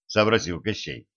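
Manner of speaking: ordinary delivery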